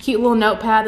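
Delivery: ordinary talk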